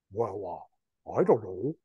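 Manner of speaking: lightly cartooned hesitant voice; a hint of a silly cartoon character. Shown as a demonstration. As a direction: make a naggy caller sound like a cartoon. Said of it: "cartoon their voice".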